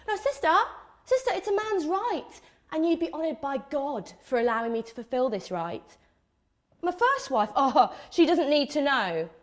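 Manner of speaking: mock a reformed player preaching polygamy; pious polygamy advocate. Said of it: "the biggest advocate for the benefits of polygamy".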